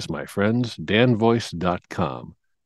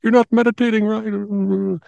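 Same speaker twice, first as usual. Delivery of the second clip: high-pitched nagging imitation, climbing to a squeal; mock scolding meditators; 7 semitones higher than usual. Podcaster mimicking hardcore meditators objecting to his relaxation, mock scolding. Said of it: "people who are hardcore meditators go".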